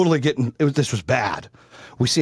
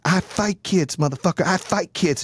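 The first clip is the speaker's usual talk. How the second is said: higher-pitched imitation of a riled mom; getting loud; 4 semitones higher than usual. Mom threatening kids at school, mock-loud. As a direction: act out her getting loud, without a full shout. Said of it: "she's, like, getting loud".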